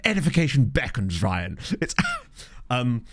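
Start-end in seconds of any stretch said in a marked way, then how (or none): 0.0-1.6 lightly imitated rugby player; mock-grand interview soundbite; Max Laheath. Rugby player answering his interviewer, lightly imitated pompous delivery. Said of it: "that rugby player where he's just like".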